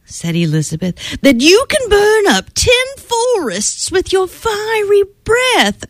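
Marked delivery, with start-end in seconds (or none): 1.2-5.8 high, sweet-talking princess voice; girl buttering up a vain dragon; flattering princess. Acted. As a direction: coax the dragon with wide-eyed praise.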